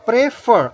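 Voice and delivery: "prefer" with the second syllable stressed; stress on last syllable. Shown as a demonstration. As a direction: lean on the "fer" in "prefer". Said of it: "the stress is on the last syllable".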